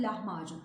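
"lahmacun" said fronted, with a fine l; the right way, a fine "lahmacun"; fronted pronunciation. Shown as a demonstration. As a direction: say "lahmacun" lightly, the l kept fine. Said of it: "İnce söylüyoruz".

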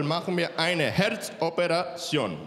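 put-on slow, stretched Latino-accented announcement; serious Latino doctor. Latino doctor announcing heart surgery, slow dancing drawl. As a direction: draw out the operation word with Latino lilt. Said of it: "der ernsteste Latino auf der Welt".

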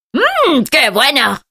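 mmm muy agudo y entusiasta; exclamación golosa. Acted. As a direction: saborea la comida con ganas. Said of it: "exclama Juan". (exclamación golosa)

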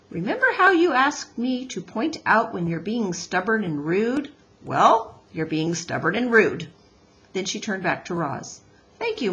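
lightly voiced scolding wife turning courteous; a touch of brisk wifely reproach, then politeness; Missus Beaver.

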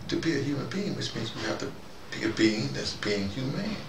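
usual speaking voice

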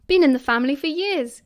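loud, proud boast; triumphant. A narrator's reading. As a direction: announce it with lifted, swinging pitch. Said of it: "he said triumphantly".

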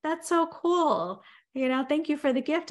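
polite thanks with no real joy behind it; husband half-heartedly thanking his wife; lukewarm thanks. Retold or imitated. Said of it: "he's like".

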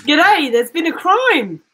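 slow Australian detective greeting; Australian accent, announcing a case. Acted. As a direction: put on a drawn-out Aussie accent. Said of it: "time in that Australian accent".

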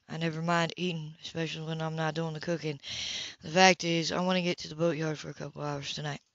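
unhurried low voice of a man; lightly voiced Ethan. A narrator's reading.

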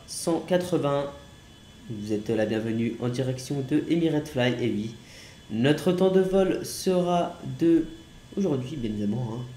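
playful airline pilot greeting; pilot cockpit headset. Pretend. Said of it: "ici, commandant Unwin".

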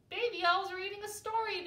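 high, loud chorus-like announcement; excited cry. A narrator's reading. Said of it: "they cried".

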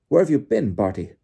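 loud, worked-up greeting question; Bagman exclaiming. A narrator's reading. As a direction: call out in surprise. Bagman questions Crouch excitedly.

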